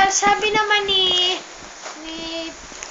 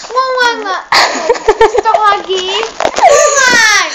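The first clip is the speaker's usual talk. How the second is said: Ngongo's voice; 3 semitones higher, 10 dB louder than usual. Acted. Ngongo tries to say he wants Superman, garbled. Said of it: "Sabi naman ni Ngongo".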